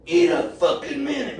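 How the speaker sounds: high, loud mock scream, laughing through it; imitated scream. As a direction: yell it like the guy on the toilet, half laughing. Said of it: "this son of a bitch screams at me".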